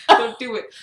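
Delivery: loud, mock-disgusted order; scolding misquote. Mom hearing about peeing in the sink, mock scolding. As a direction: tell them off, imitating mom. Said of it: "She didn't say that".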